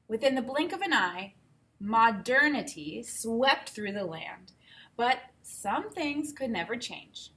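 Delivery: put-on reading a picture book aloud to kids; unhurried storybook telling; read-aloud voice for children; story narration. Reads story introduction aloud.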